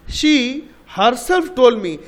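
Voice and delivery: very slow, herself pressed hard; "herself" stressed, words drawn out; emphasis on herself. Shown as a demonstration. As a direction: lean on herself to show the emphasis. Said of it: "তা আমরা জোর দিচ্ছি".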